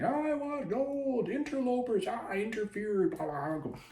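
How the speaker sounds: drawn-out, high-pitched slug monster voice; mock booming monster. Giant slug barreling down the tunnel after them, mock booming. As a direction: stretch the words out like a bellowing giant slug. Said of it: "this large booming voice".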